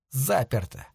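flat, quiet statement of fact; just state it dryly; matter-of-fact. Acted. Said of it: "констатировал Пикеринг".

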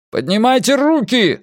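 high, commanding yell. A narrator's reading. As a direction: shout the order urgently. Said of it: "заорал Эрик".

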